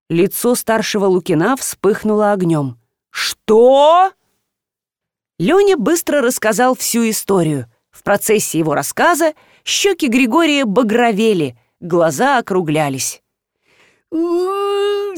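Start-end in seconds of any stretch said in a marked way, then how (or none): 3.1-4.1 high loud outraged what; outraged roar. A narrator's reading. Flushing father erupts at son's prank. 14.1-15.2 high drawn-out enraged howl; furious howl. A narrator's reading. Father howls at the son's mischief. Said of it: "заорал он".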